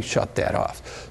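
slow, breathy whisper "Shut that off."; urgent hushed command. Shown as a demonstration. Teacher showing the student how he'll really say it, a slow urgent whisper. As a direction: hiss it low and slow so they know it's serious. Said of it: "but I'll be saying".

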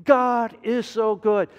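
slow, elated sigh of relief; imitated relief. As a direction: savour the joy of being free. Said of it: "you say".

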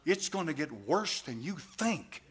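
usual speaking voice

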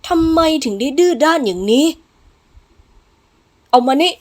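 harsh, impatient command; angry master. Acted. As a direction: order the patient with force. Master scolding, forcing medicine on patient.

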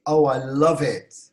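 emphatic delight; adoring exclamation. Shown as a demonstration. Teacher models the required sound, adoring. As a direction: lean hard on love. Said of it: "Bu ses çıkacak".

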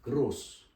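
Gross with the o held long. Shown as a demonstration. Teacher repeats Gross to show the long o. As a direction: hold the o of Gross. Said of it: "Uzun okunuyor".

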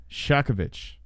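"Shakovich" as SHAH-kuh-vitch; "Shakovich" ending in a soft vitch. Shown as a demonstration. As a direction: say "Shakovich" with a clear V. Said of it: "the W here is a V sound".

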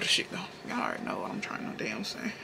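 fast whispered aside. Real, not acted. Tossing off an aside to viewers, a fast whisper. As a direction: whisper it to yourself quickly.

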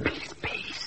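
whispered hush, peace peace; urgent whisper. Acted. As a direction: hiss at them to be quiet. Hushing others in hiding.

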